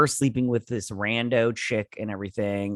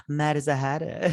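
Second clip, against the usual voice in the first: laughing; 4 semitones higher than usual. Retold or imitated. Quoting villain, laughing.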